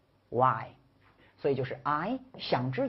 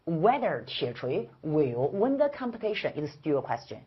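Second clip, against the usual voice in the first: slow, clear read-aloud for the class; slow model reading. Shown as a demonstration. Teacher modeling the sentence slowly for students. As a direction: spell every word out slowly. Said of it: "张开血盆大嘴读完".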